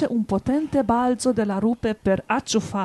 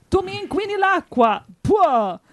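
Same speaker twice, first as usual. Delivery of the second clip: angry wolf; 8 semitones higher, 3 dB louder than usual. A narrator's reading. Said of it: "E così dicendo".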